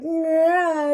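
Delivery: high, strained groan; mock stressed-out groan. Imitating an enraged man pulling out his hair, stressed groan. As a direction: imitate someone bursting with stress. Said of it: "just high cortisol and just like".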